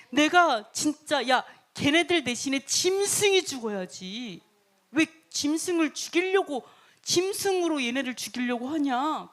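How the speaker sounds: retold indignant rebuke, drawn out; mildly acted royal temper, slow emphatic start; angry scolding. King berates servant over the beasts, angry scolding. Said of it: "화가 나가지고 막 승질을 내면서".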